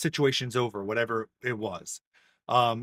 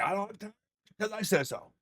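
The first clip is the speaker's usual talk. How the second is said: higher, softer brush-off; mock exasperated parent; 7 semitones higher, 4 dB quieter than usual. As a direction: imitate a harried parent dismissing a kid. Busy parent brushing off kid.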